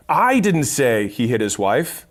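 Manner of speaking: I stressed, slow and rising. Shown as a demonstration. Showing how stress on I changes a sales line. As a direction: lean on the word I in I didn't say he hit his wife. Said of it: "So if I said".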